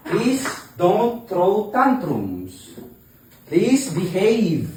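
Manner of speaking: drawn out and pleading, coaxing a calm; slow pleading. Real, not acted. Mother slowly pleading with her upset toddler, gently.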